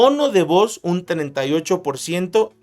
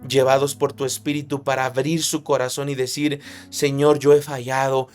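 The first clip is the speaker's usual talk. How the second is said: earnest pastor's prayer; fervent closing prayer to God. Acted. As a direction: pray over the congregation, fervent.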